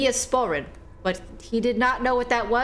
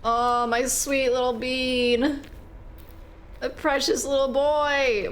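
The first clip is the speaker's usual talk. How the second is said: tender cooing; 3 semitones higher, slower than usual. Real, not acted. Mourning the dead dog.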